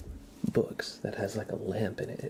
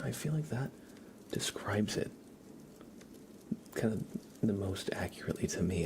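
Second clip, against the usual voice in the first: soft unvoiced whisper greeting chat; 9 dB quieter than usual. Real, not acted. Streamer greeting viewers in chat, whispering. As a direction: breathe the words gently.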